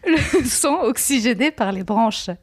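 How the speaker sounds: laughing. Real, not acted. Reading while laughing.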